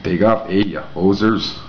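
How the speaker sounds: a hint of a mock Canadian accent, eh; lightly mocking Canadian slang. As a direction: toss it off like a cartoon Canadian. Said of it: "do you, like, say "eh" a lot?".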